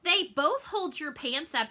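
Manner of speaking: daughter's reply. Retold or imitated. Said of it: "she goes".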